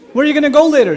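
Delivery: put-on dad pressing his mumbling teenage son. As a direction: press the kid hard. Father pressing teen.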